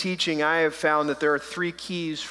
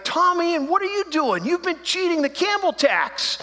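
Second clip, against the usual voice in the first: mock call-out; 13 semitones higher than usual. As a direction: call him out with a teasing grin. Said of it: "I'd be like".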